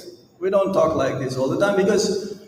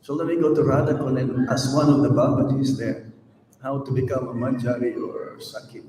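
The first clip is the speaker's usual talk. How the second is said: quick, lower voice for an imagined follower; imagined devotee's thought; 4 semitones lower, faster than usual. Acted. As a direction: lightly mimic a naive devotee thinking aloud. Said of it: "don't think that right now".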